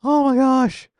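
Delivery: high slow whimper rising into a loud cry; high strained wail. Real, not acted. Crying from hot wings, a high strained wail. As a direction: whine it high and slow, then break.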